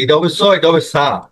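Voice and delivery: স heavy and full, then সা thin with আ. Shown as a demonstration. Teacher contrasting heavy সদ and thin সিন. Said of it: "যেমন সদ আর সিন".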